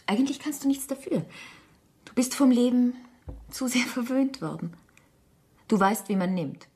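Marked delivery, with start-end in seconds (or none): 0.1-4.7 leise geflüstert. Acted. Ehefrau flüstert im Streit.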